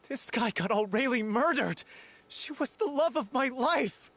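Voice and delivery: rising angry outburst, ending in a loud yell; furious shouting. Acted. Grieving actor yells at the guilty castmate, furious. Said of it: "You've screamed and shouted at each other".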